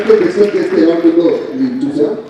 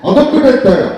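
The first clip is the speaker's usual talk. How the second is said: Pawan Kalyan impression; 4 semitones higher than usual. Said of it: "మీరు చేసింది పవన్ కళ్యాణ్".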